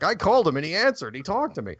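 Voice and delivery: playful, high-pitched quote; mock excitement. Retelling Rick's boast about the call.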